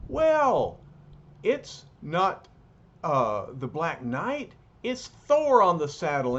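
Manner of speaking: excited. Acted. Policeman excited shouting.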